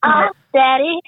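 drawn out teasing moan; excited anime fan. Acted. Mock moaning reply.

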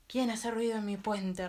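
loud, slow troll roar; troll challenging the biggest goat, loud slow roar. Acted. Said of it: "rugió el ogro".

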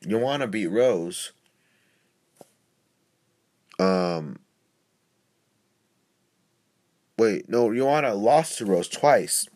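slow, dragging stoned speech. Real, not acted. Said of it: "I'm stoned right now. Sorry if my voice is slowing down".

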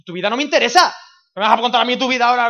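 loud, hammed-up indifference; mock indignant brush-off. Preacher mimicking someone who only asked how you are, mock indignant. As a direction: cut them off loudly, acting uninterested.

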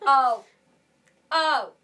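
put-on loud, high Welsh-accented call; exaggerated Welsh exclamation; mock Welsh catchphrase. Imitating Gavin and Stacey catchphrase.

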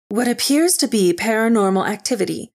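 crisp TV news delivery; news anchor. A narrator's reading. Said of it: "the female Asian anchor said".

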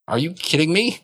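lightly voiced indignant elderly woman; annoyed old woman. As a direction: huff it out like an affronted grandma. Elderly woman blocked from elevator.

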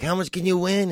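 high, haughty rich-person voice; rich snob. Retold or imitated.

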